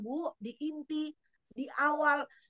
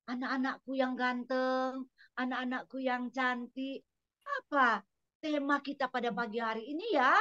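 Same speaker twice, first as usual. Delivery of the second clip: coaxing greeting to pupils. Shown as a demonstration. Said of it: "Anda disuruh".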